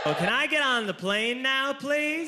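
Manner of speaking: high, polite little plea; acted-out meek request, rising on "please"; timid plea. Asking airline staff for a favour.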